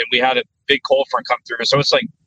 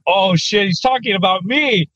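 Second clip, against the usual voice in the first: higher-pitched mock dread; alarmed realisation; 5 semitones higher than usual. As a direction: replay the oh-no moment, voice pitched up. Realises the sergeant means him.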